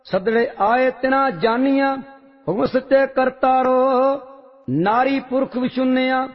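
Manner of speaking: steady, measured recitation of a sacred hymn; devotional scripture recitation. Real, not acted. Reciter chanting Vadhans hymn to the congregation, reverent and measured. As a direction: intone each line with reverent calm.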